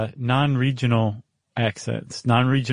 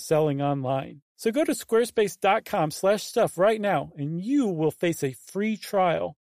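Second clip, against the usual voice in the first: lightly higher-pitched sponsor read; 6 semitones higher, 4 dB quieter than usual. Real, not acted. Host pitches a website sponsor to listeners, ad read. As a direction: read the offer as a podcast host.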